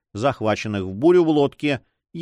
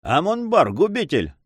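exclamation; 8 semitones higher than usual. A narrator's reading. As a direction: call it out in alarm. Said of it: "воскликнул капитан". (с возгласом)

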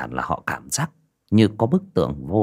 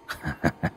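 short burst of gloating laughter; mocking villain laugh; 3 semitones lower, 10 dB quieter than usual. A narrator's reading. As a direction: laugh briefly at trapped victims. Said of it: "thì cười sằng sặc".

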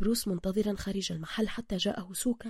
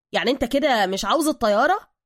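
hopeful question; 3 semitones higher, 8 dB louder than usual. Acted. Sidekick's afterthought question to hero.

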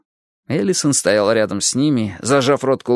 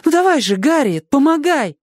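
much louder, higher impatient shout; 4 dB louder than usual. A narrator's reading. Crying girl urges the others, loud impatient shout. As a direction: urge them on impatiently. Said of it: "нетерпеливо крикнула она".

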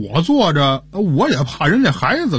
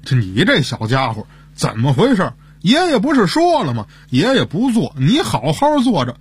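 mock anger. Grandpa telling a boy on the bus to stay seated, mock anger. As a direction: scold the child lightly, only feigning anger. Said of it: "还假装生气的跟他说".

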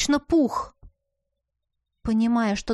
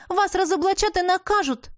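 raised voice, pitched up; exclaiming; 9 semitones higher than usual. A narrator's reading. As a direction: cry it out in alarm. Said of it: "воскликнула я".

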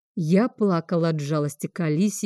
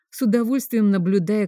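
ordinary delivery, nothing marked

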